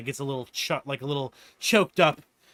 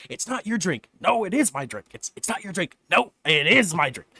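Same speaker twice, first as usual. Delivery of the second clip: mock bickering; 3 semitones higher, 3 dB louder than usual. Two inventors bicker over drink.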